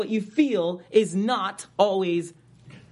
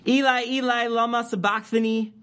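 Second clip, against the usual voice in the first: a raised, high cry of Eli, Eli; loud cry; 5 semitones higher, 3 dB louder than usual. Acted. Preacher voicing Jesus on the cross, crying out. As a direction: cry the words out to heaven, pitched up. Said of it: "Jesus cried out with a loud voice".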